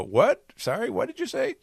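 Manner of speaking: put-on high-pitched, oblivious old-man query; hard-of-hearing old man. Dying old man revives to ask, hard-of-hearing and high. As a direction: play an old man who missed it. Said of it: "also being hard of hearing".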